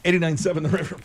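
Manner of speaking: booming radio DJ voice. Real, not acted. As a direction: announce it like a radio DJ. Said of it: "Did you hear him talking like a D J?".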